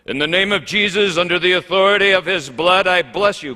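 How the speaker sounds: hammed-up pulpit blessing over dinner; mock grand blessing. Pastor hamming up a blessing over holiday food, booming.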